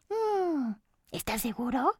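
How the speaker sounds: high, hesitant little cookie; a lightly voiced wary cookie; doubtful cookie. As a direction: cookie voice, unsure.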